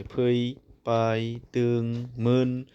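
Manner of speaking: each syllable spaced out, with long pauses between. Shown as a demonstration. Teacher sounding out a word for students, slow and syllabified. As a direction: break फैबायदोंमोन into फै, बाय, दों, मोन, then join the parts. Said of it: "नै बाव खोथा जाखो नै".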